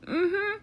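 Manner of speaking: high, closed-mouth strained hum; badly faked choking hum; mock choked mm-hmm. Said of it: "Tony choking on twenty-three unpopped kernels".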